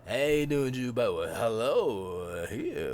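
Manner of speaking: a hint of a tipsy Lando. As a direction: sound a bit drunk but not really. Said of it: "sounds like he's kinda drunk".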